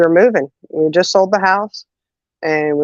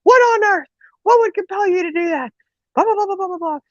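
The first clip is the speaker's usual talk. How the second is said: scolding mother; 14 semitones higher than usual. Retold or imitated.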